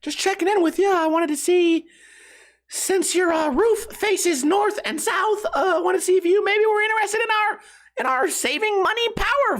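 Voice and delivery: mock a pushy salesman in a high put-on voice; mocked door-to-door salesman. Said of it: "this guy goes".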